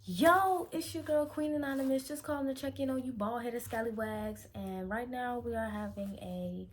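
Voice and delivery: high, loud, pumped-up caller voice with Yo shouted; hyped radio call-in intro. Shown as a demonstration. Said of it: "We're gonna get it together".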